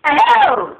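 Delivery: very high squeal of disgust. Real, not acted. Disgusted echo.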